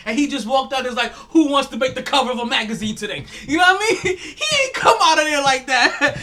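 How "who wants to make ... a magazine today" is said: loud laughing playboy call; hammed-up party host; mock Hugh Hefner. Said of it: "he was Hugh Hefner".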